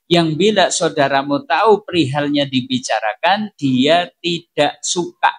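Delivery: slow, deliberate teaching recitation; measured recitation. Acted. Teacher reciting the definition of hibah to the class, measured recitation. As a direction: spell out the definition phrase by phrase, drawn out.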